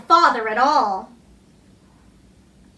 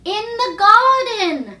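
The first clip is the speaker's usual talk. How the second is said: higher, slow, fluting call; like a golden flute; 7 semitones higher, 4 dB louder, slower than usual. A narrator's reading. The dream voice answering Archie from the garden, fluting. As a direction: let garden ring out like a flute note. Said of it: "like a sound from a golden flute".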